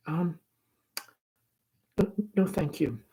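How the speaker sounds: put-on shy girl too nervous to speak; thin, breathless. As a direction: stammer it out as if winded. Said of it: "Laura's voice is thin and breathless".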